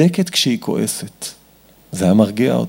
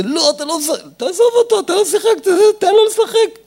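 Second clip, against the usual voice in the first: very high, heated scolding; acted quarrel. Parent arguing with child over toy car, high heated scolding. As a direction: yell over the child in mock exasperation. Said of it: "איזה מריבה".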